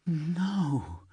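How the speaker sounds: stunned disbelief; stammered no. A narrator's reading. Jamie hearing of Amy's death, stammering in shock. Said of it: "he stammered".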